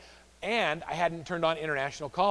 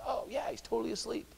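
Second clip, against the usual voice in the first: amused doctor joke; 7 semitones higher, 9 dB quieter than usual. Retold or imitated. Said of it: "He says".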